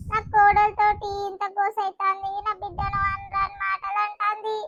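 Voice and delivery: put-on old mother bewailing her lot to herself; lamenting mother-in-law. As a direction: mourn over the daughter-in-law's words.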